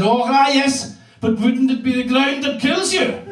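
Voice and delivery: a hint of a knowing granny; lightly voiced granny. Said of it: "And she said".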